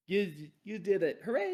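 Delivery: cheer. Real, not acted. Cheering a made save.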